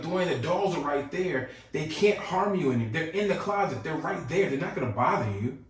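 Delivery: a hint of an impatient cousin reassuring; exasperated cousin. Cousin lightly voiced, insisting to scared little Dwayne the dolls are harmless. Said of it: "She was like".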